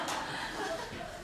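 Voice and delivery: airy wheezing laugh after the punchline; breathless laugh. Real, not acted. Pastor cracking up at the toothbrush punchline, breathy laugh. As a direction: let the laugh escape without voice.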